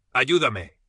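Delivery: pained plea. A narrator's reading. Injured Adrián begs Leo for help, pained moan. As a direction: beg for help through the pain. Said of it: "gimió".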